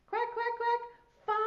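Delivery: slow, high duck quacks; duck quacking. Pretend. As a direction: draw out the quacks for children. Voices ducks in counting game.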